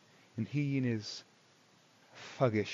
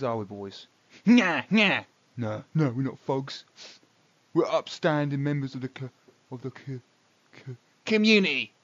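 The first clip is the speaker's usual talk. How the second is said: offended thug boss; 5 dB louder than usual. Acted.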